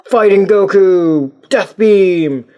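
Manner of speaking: mock attack call. Calling out box pictures dramatically.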